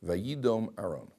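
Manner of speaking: slow, deliberate quoting of the verse. Shown as a demonstration. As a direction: lay out each word of the Hebrew slowly. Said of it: "Look at Aaron's reaction over here".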